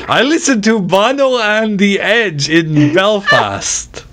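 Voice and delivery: bad Irish accent. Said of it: "that's supposed to be Irish".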